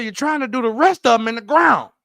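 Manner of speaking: loud, calm comeback; Morgan Freeman. Retold or imitated. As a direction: deliver it like wise advice. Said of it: "here's the Morgan Freeman part".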